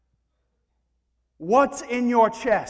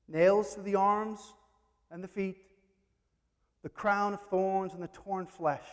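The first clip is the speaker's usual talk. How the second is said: usual speaking voice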